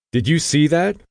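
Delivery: bursting to share what she saw; excited. A narrator's reading.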